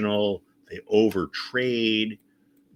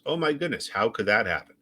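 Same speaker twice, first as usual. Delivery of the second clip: mock shock; 2 semitones higher than usual. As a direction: play dumb, fake astonishment. Sarcastic fake shock repeated.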